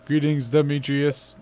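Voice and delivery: slow, even mock robot greeting; lightly voiced machine, each word spaced out. The robot greeting the scientist dad, slow mock robot voice. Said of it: "That robot voice, though".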